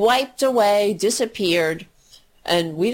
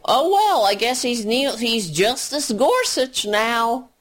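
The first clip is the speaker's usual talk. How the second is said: mocking meek Democrats; 3 semitones higher than usual. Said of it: "They say".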